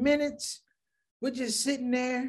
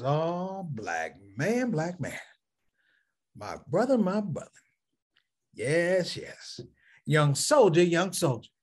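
low, solemn, every phrase said twice; lightly voiced imitation of a solemn preacher, repeating each phrase; a hint of a deep-voiced preacher; Nation of Islam brother voice; 3 semitones lower, slower than usual. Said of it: "learn how to talk like the Nation of Islam brothers".

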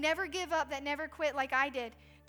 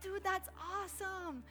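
excited praise; 5 semitones higher, 5 dB quieter, slower than usual. Retold or imitated. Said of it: "And I'm like".

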